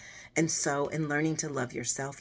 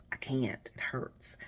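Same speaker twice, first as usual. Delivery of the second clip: whisper; slower than usual. Retold or imitated. Retold fear of lasting pain.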